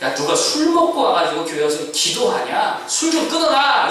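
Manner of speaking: mild mock rebuke, rising at the end; scolding. Eli rebukes praying Hannah as drunk, scolding. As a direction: play Eli telling off a worshipper. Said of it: "책망 쪽으로 말합니다".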